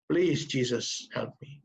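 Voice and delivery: slow plea fading to almost nothing; tearful plea. Retold or imitated. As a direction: beg slowly, trailing off in tears. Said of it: "dengan air mata dia berkata".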